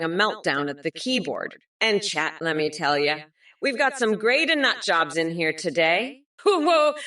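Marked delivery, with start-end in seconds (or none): 6.4-6.9 surprised whoa. Real, not acted. Reacting to chat message.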